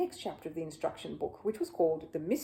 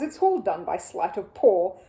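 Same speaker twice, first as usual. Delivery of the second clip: raised voice over clapping; loud over applause; 7 dB louder than usual. Acted. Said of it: "above the applause".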